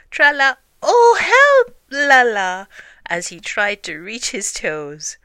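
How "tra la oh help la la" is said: loud, high hum broken by effort; straining cry. A narrator's reading. Pooh tries to reach his toes, straining loud sing-song. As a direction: yelp mid-song as you strain.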